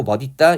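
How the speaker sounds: 멋있다 with a d in the middle; the strict reading, 머딛따; standard-rule pronunciation. Shown as a demonstration. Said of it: "이렇게".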